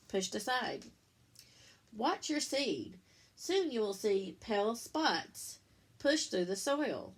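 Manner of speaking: slow, lilting picture-book read-aloud; reading to children. Acted. Teacher reading the bean book to her class, lilting storybook voice. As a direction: read it like story time for little ones.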